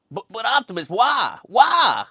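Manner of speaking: high, loud whining underling; Wheeljack. Acted. Wheeljack questioning Optimus's order, high pleading whine. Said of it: "Wheeljack was kinda like".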